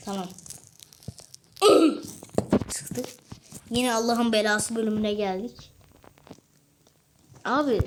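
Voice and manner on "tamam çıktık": whispered relief. Real, not acted. Gamer finally escaping, whispered relief.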